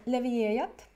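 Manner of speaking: Levererat said the Swedish way, rolled and even; Swedish word. Retold or imitated. Mum retelling her son's reply, in Swedish. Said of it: "in Swedish, he just said".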